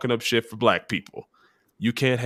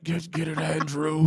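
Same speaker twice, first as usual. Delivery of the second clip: Maury impression; 4 semitones higher, 4 dB quieter, slower than usual. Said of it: "Maury was making that boy".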